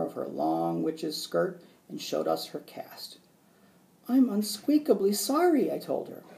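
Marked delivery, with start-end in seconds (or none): 4.1-5.7 high, loud squeaky apology; hamster squeak. A narrator's reading. Hamster apologising to his injured teacher, squeaky.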